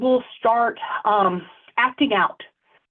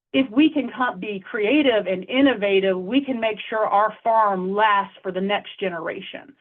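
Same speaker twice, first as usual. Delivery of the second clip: hopeful, encouraging. Shown as a demonstration. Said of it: "use language instead that says".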